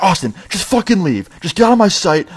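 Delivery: high-pitched mock outburst; angry boss. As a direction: imitate a boss throwing someone out. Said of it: "And he gets all angry".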